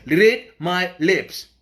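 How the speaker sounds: very slow, deliberate catchphrase, word by word; lightly put-on presidential voice, drawn out; George Bush. Activist warning the government they won't take this, light George Bush impression. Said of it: "In my George Bush voice".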